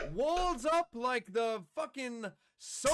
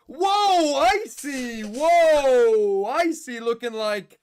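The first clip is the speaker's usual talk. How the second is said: loud, over-the-top Italian man at dinner, lightly done; hype caster impression; 2 semitones lower, 11 dB louder, slower than usual. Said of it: "Why am I Italian?".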